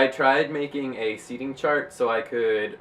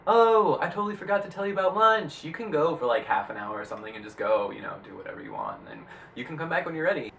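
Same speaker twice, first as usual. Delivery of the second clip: high, bubbly quoted coworker; 3 semitones higher than usual. Retold or imitated. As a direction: lightly voice Kelsey. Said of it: "told me, like".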